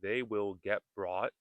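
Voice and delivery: they will get brought, last T held back; unreleased final T. Shown as a demonstration. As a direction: stop the T of BROUGHT without releasing it. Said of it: "you can practice saying".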